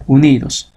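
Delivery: "unidos" with the NI carrying the force; teacher's stressed example "unidos", u-NI-dos; stress on second-to-last syllable. Shown as a demonstration. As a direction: lean on the middle syllable of "unidos". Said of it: "¿Dónde está la mayor fuerza de voz?".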